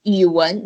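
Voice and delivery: yuwen with a low dip and rise; third tone. Shown as a demonstration. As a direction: let yuwen sink, then lift. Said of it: "It's the third tone".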